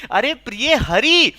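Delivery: slow, lightly acted reply from outside; Krishna calling out. Krishna answers Radha at the door, lightly calling out. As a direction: stretch the words as you announce yourself. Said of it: "भगवान श्री कृष्ण बोलती हैं".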